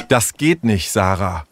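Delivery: firm, controlled objection. Acted. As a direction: put your foot down calmly. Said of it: "sagte Leo bestimmt".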